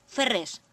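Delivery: "ferrés" with the R before the S left out; silent final R. Shown as a demonstration. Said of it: "A R zaguera tampoco no se pronuncia".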